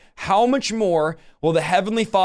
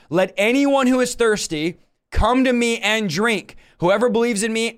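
Jesus; 3 semitones higher than usual. Acted. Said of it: "this is Jesus yelling".

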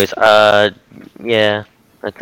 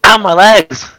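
pained yelp; 9 semitones higher, 5 dB louder, slower than usual. Pretend. Sudden cry opening the podcast.

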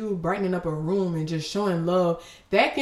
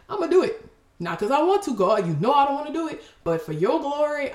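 mock reluctant prayer; 7 semitones higher than usual. Acted prayer, reluctant obedience to God.

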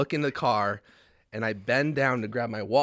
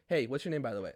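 soft demo; 5 dB quieter, faster than usual. Shown as a demonstration. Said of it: "Like this".

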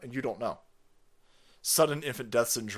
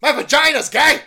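high, loud, whiny mock official; 12 semitones higher, 13 dB louder than usual. Mocking the deputy secretary's excuse, high whiny voice. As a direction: whine it like a cornered bureaucrat.

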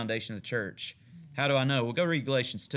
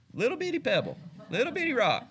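tiny pebble; 10 semitones higher than usual. Acted. Mocking smallness of Peter's name.

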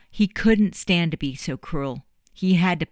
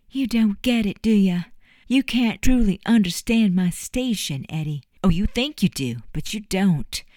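put-on higher, louder, bitter young woman; Juliet's bitter outburst; 4 semitones higher, 5 dB louder than usual. Juliet confronting Eddie about her station, bitter and loud. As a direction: lay out her hurt and anger to him.

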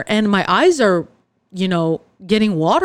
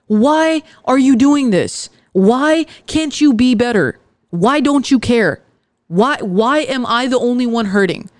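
hurt venting; 2 semitones higher than usual. Pretend. Venting at a hurtful friend.

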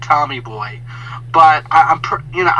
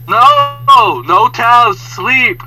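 loud, raised mock refusal; annoyed guest; 6 semitones higher, 6 dB louder, much slower than usual. Sleeping guest sending maid away, mock annoyed yell. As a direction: holler back at the knocking, voice pushed up.

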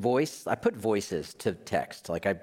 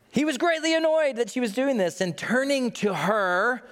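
1 emphatic; 11 semitones higher, 3 dB louder than usual. Acted. Emphatic scripture reading.

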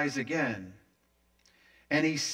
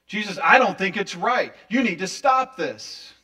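insistent objection; 2 semitones higher, 7 dB louder than usual. Acted. Acting out believer rebuking Jesus.

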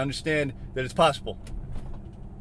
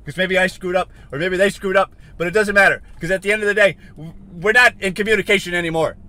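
loud, higher-pitched frustrated rant; getting mad; 4 semitones higher, 6 dB louder than usual. Real, not acted. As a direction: push each clause out, exasperated. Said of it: "I'm just getting mad".

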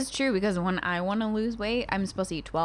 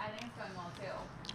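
whisper; 19 dB quieter than usual. Pretend. Mocking the awkward ASMR bit.

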